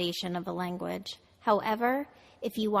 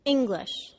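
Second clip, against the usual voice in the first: English with ING higher, GLISH weaker; stress on first syllable; 4 semitones higher, 4 dB louder than usual. Shown as a demonstration. Teacher models a word for students, stress on first syllable. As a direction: hit ING in English, let GLISH drop. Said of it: "The first syllable is stressed".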